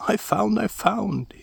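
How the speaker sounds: high eager calls; excited call. A narrator's reading. Askeladd calling to his brothers, high excited call. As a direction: announce the find like a thrilled kid. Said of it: "he shouted".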